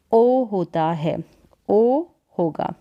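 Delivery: ओ drawn out slowly as a long o; लंबा ओ खींचकर; long o shown. Shown as a demonstration. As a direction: stretch the ओ. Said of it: "ओ का थोड़ा long sound होगा".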